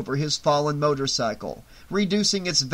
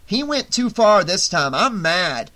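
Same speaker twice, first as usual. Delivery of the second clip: raised, indignant voice; worked-up anger; 4 semitones higher, 4 dB louder than usual. A narrator's reading. Shelley to Vera as he turns on Ali, worked-up anger. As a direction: protest with a touch of fury. Shelley explains his vengeful U-turn.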